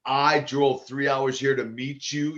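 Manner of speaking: lightly imitated broken Russian accent, drawn out; slow, mildly put-on Russian accent. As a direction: retell her complaint in slow Russian-accented English. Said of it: "she had kind of this broken accent".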